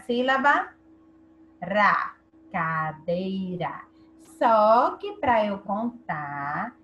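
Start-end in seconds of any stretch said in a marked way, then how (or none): 2.5-3.8 "Cadeira" low and slow, in three parts; syllable by syllable. Shown as a demonstration. Teacher counting three syllables, "Cadeira" slowly drawn out in parts. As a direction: spell out "Cadeira" slowly as ca-dei-ra. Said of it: "Cadeira tem três sílabas".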